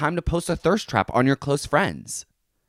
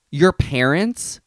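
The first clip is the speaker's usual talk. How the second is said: mock disbelief; 3 semitones higher, 5 dB louder, slower than usual.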